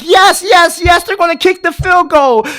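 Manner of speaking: relieved cheer. Retold or imitated. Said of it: "I'm like".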